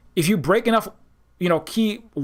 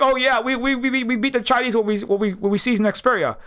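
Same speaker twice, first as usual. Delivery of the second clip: mock European boast; 6 semitones higher than usual. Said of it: "The Europeans are like".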